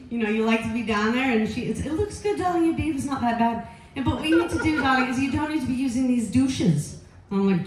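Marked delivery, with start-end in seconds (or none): 1.8-3.7 put-on British accent starting high; British gynecologist. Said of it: "she's British". 4.0-7.0 lightly put-on British accent; British gynecologist. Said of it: "she's British".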